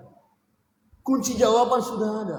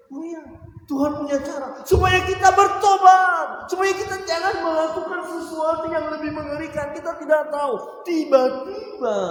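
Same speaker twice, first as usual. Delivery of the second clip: higher, much louder preaching voice; fervent pulpit preaching, raised and loud; full-force preaching; 9 semitones higher, 5 dB louder than usual. Acted. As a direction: drive the point home to the congregation.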